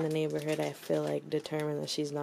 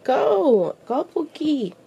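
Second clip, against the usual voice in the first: voicing the dog, loud; 10 dB louder, slower than usual. Vlogger voices her dog shoving the other dog, shouting. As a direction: bark it out as the annoyed dog. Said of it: "she's over here like".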